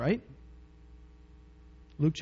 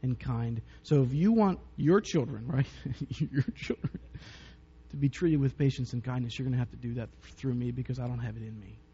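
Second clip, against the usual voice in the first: weary prayer; 3 semitones lower, 4 dB quieter than usual. Retold or imitated. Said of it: "some days it's like".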